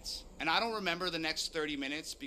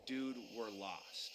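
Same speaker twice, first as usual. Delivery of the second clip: terrified realization; 5 semitones lower, 7 dB quieter, slower than usual. Retold or imitated. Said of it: "terrifying realization".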